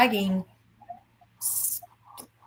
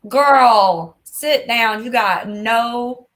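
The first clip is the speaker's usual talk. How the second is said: sassy telling-off; 6 dB louder, slower than usual. Retold or imitated. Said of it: "I was like".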